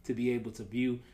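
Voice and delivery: speaking around retainers; wearing a retainer. Real, not acted. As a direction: talk with retainers in. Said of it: "I got my retainers in".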